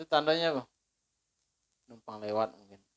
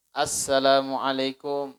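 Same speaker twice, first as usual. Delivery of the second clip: calling at the door. Retold or imitated. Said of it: "ketika kita ngetok pintu".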